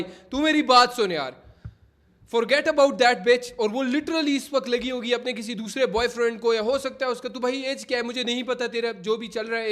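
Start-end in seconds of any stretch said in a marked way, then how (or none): 0.0-3.5 louder, slow, hard motivational talk; a hint of a hardline coach lecturing; Andrew Tate style. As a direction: lay down the law slowly like a tough life coach. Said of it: "Andrew Tate बनना चाह रहा हूँ".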